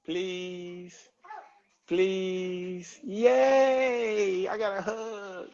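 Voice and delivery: put-on high, sing-song baby-talk voice asking for a hug. Mom begging her little one for a hug, high baby talk. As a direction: coo it way up high like talking to a toddler.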